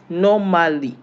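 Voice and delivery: "normally" said the English way, ending in -ly; English pronunciation. Shown as a demonstration. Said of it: "L Y in English".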